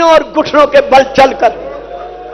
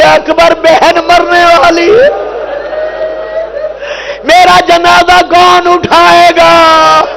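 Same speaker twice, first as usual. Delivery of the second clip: weeping plea; 4 semitones higher, slower than usual. Acted. Dying sister weeps for her brother Akbar. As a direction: plead through tears, slowly. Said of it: "رو رو کے کہہ رہی ہے".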